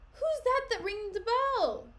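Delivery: high, loud, drawn-out demand; loud, slow shout. Acted. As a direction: call out over the alarm. Alarmed question in brawl.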